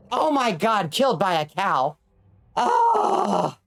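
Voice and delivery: frantic terrified shrieks while being chased; real panicked screaming. Real, not acted. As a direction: scream in genuine panic as the mob closes in. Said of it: "I'm so sorry I screamed".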